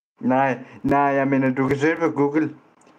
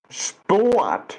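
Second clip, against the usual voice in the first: mocking retort; 6 semitones higher than usual.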